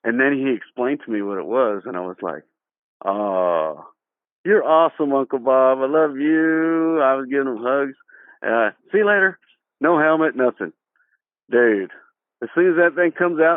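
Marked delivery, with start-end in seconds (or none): 3.0-7.0 put-on gushing kid thanks. Kid thanking Uncle Bob. 8.9-9.4 gleeful farewell. Retold or imitated. Kid riding off happily.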